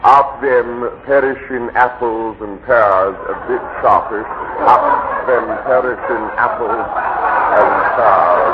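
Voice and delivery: posh man straining at a Cockney accent; a stiff gentleman trying out Cockney rhyming slang; mock cockney attempt. Shown as a demonstration. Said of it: "You'd better try something else".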